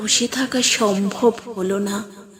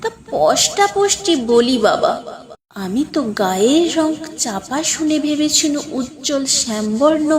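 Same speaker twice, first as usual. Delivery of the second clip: betel-chewing grandmother; 2 semitones higher than usual. Acted. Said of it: "পান চিবোতে চিবোতে".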